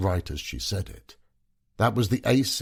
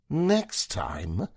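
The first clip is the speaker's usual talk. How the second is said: wailing; 8 semitones higher than usual. A narrator's reading. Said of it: "Megan wailed".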